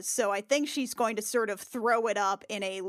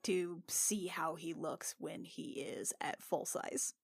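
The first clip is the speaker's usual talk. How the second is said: whispering; 3 semitones lower, 9 dB quieter than usual. Real, not acted. Aside whisper to host.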